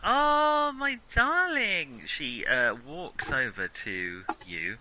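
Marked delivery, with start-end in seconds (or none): 0.0-2.0 put-on gushing, high German-accented greeting; drawn-out, loud German-accented endearment; effusive German-accented old friend. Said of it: "doing a German accent there".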